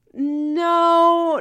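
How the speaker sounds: a loud, high, cutting no; sharp no. Acted. Kayla shutting Stefan down, a loud sharp no. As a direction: slam the door on it with one word.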